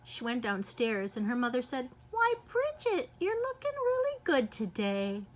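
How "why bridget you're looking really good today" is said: mother's voice. Acted. Mother's voice in story.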